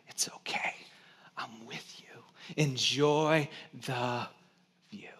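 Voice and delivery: soft unvoiced whisper, reassuring; whispered comfort. Father whispering to his scared daughter on a paddleboard, gentle whisper. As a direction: whisper it close in her ear. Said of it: "was whispering into your ear".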